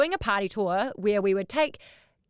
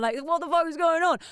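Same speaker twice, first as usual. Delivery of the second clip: hammed-up disbelief; mild imitation of an exasperated Gaz; mock exasperation; 6 semitones higher than usual. Gaz detained in customs.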